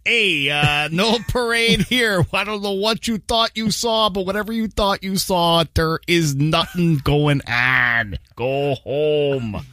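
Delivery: put-on slow Dublin Irish accent; Southside Irish accent. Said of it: "Just do the Southside Irish guy".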